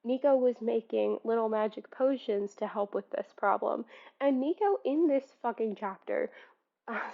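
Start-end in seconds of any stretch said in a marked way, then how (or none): 4.2-6.3 sudden aggressive snap at the character; aggressive outburst. Real, not acted. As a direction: spit out the complaint with heat. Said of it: "sorry, that was really aggressive".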